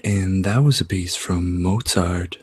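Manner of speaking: lightly voiced public radio host. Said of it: "talk like the public radio people".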